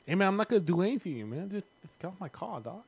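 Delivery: lightly voiced Mike Tyson; a hint of Tyson, mostly own voice; bad Mike Tyson impression. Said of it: "bad Mike Tyson impressions".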